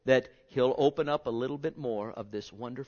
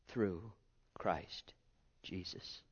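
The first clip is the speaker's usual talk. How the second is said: softer and lower down to a breath; fading to a whisper; 5 semitones lower, 10 dB quieter, much slower than usual. Acted. Preacher ending verse before congregation, fading to whisper. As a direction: let the verse die away.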